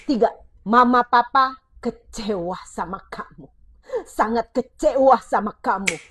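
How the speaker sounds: put-on a parent telling a child how let down they are, reproachful; disappointed parent. Shown as a demonstration. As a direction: lay on the disappointment. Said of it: "Begitu anak kamu mendengar kata-kata itu".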